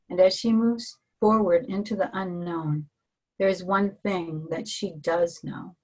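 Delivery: measured reading voice, letting phrases settle; card reading. Acted. Host reads the awakened woman card to her guest, in a calm reading voice.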